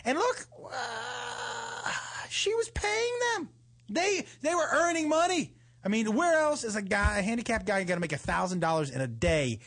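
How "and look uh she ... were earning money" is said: playful defense. Real, not acted. Joking excuse.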